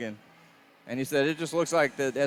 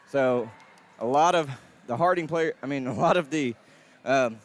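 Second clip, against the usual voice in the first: catching breath midword; breathless, gasping between words. Real, not acted. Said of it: "sorry, I lost my breath here".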